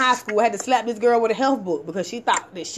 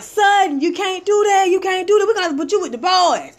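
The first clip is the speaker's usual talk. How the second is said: teacher; 5 semitones higher than usual. Retold or imitated. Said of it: "the teacher was like".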